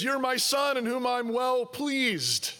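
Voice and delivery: slow, warm and delighted; tender, pleased voice. Retold or imitated. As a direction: bless him slowly with delight. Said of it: "He says".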